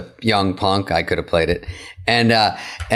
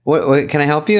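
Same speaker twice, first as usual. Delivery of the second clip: officious handler; 4 semitones higher than usual. Retold or imitated. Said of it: "she stops me and goes".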